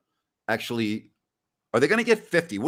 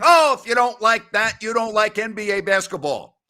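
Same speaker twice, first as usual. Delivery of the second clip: mocking TV announcer; 5 dB louder than usual. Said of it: "after a great play saying".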